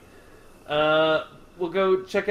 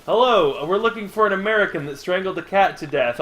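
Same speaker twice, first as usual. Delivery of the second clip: lightly voiced officer, higher pitched; police at the door; 4 semitones higher than usual. Police at the door hunting a cat strangler, official. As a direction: announce yourself as a police officer, slightly raised pitch.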